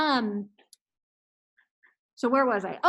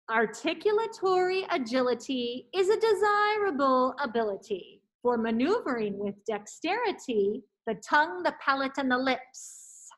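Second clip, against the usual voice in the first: careful articulation. Shown as a demonstration. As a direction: enunciate every syllable clearly. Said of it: "I'm going to do it once".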